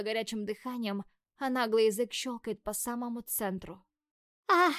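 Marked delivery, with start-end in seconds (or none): 4.5-4.7 a short loud high yelp; sharp squeal. A narrator's reading. Heroine yelps at a sudden touch, short and loud. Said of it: "взвизгиваю я".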